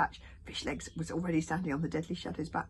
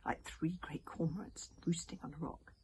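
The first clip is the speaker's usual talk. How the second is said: hushed storytelling whisper; whispered narration; 4 dB quieter than usual. A narrator's reading. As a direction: read it in a soft whisper.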